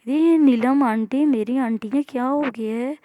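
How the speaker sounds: loud, slow, emphatic; loud retort. Acted. Amara retorting loudly to Maya about her aunt. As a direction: plant each word as a retort.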